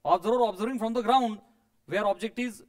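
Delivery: "from the ground" drawn out slowly, word by word; very slow dictation pace. Shown as a demonstration. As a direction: dictate it slowly so they can write. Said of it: "जे discuss केलं तेच लिहा".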